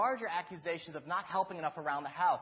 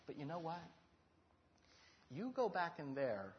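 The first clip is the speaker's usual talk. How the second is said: calm friendly advice; 3 semitones lower, 5 dB quieter than usual. Retold or imitated. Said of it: "And he goes".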